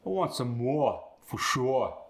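Cockney, no R at the end; Cockney R dropped. Shown as a demonstration. Student demos the dropped R. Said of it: "just drop the R".

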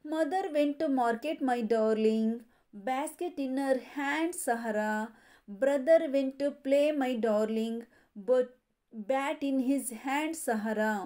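sing-song nursery rhyme reading; rhyme recitation. Shown as a demonstration. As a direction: recite the rhyme steadily for children. Teacher chants rhyme verses. (ಮಕ್ಕಳಿಗೆ ಪದ್ಯ ಓದುವ ಧಾಟಿ)

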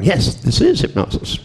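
playfully echoing the doctor's claim; mock agreement. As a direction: agree with a knowing, playful lift. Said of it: "And I'm going".

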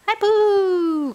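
high, loud bright hello; excited greeting. Real, not acted. Mother greets toddler.

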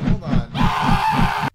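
high, slow, breathy shrieking hold on; panicked shriek in the helicopter; panicked high shout. Real, not acted. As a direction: shriek it as things spin out. Helicopter chaos.

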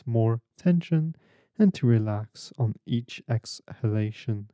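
unhurried guiding voice with long pauses; guided meditation. Real, not acted. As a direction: lead them gently inward, leaving room between phrases.

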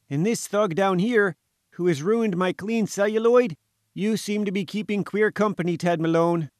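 high-pitched aggrieved little reporter; indignant journalist. A narrator's reading. Journalist complaining to Malone about his treatment, high and indignant.

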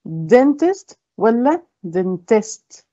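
slow, each dentist stressed differently; contrasting stress. Shown as a demonstration. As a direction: show the stress shift slowly. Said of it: "خدتوا بالكم الفرق؟". (نطق بطيء يوضح الفرق في النبر)

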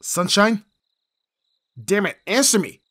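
loud, high desperate yell; frantic shout. Acted. Bodyguard searching the empty house: frantic shout. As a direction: shout for them, panic rising.

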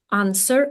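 "answer" said with no w sound; teacher demonstrating "answer" as AN-ser; silent W. Shown as a demonstration. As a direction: drop the w in "answer". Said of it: "W не читається".

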